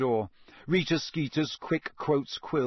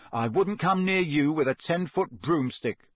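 furious; 4 semitones higher than usual. Acted. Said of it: "said Harry furiously".

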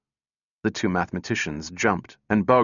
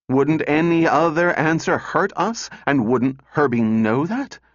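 high-pitched, pressing rhetorical questions; insistent challenge; 6 semitones higher, 3 dB louder than usual. A narrator's reading. Calvin explains the robot's motive, high and insistent. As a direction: drive each question home, voice raised. Calvin drives her argument home.

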